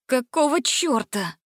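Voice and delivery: what on earth; baffled. A narrator's reading. Gretel, baffled by the singing, slow and stunned.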